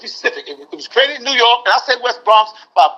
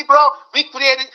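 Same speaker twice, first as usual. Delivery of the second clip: slow, higher Puerto Rican accent impression; put-on Puerto Rican accent, pitched up; mock Puerto Rican accent; 4 semitones higher, slower than usual. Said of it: "I want you to talk like this".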